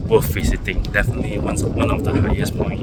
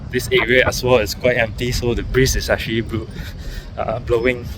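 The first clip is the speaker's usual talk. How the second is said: shivering. Real, not acted. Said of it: "I'm actually shivering right now".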